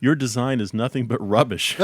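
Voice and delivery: put-on blunt put-down in a British accent. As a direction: deliver a harsh verdict in a British accent. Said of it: "that is a bit harsh".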